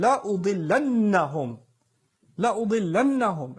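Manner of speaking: لَأُضِلَّنَّهُمْ with heavy doubled noon, fast; لَأُضِلَّنَّهُمْ stressed hard on the final noon; emphatic recitation. Shown as a demonstration. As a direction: lean on the doubled letters of لَأُضِلَّنَّهُمْ. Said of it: "say something with more exclamation".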